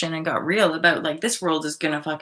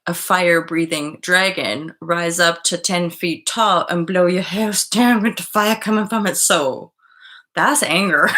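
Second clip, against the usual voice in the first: building to a shout; 5 dB louder than usual. Pretend. Describing real anger, building up.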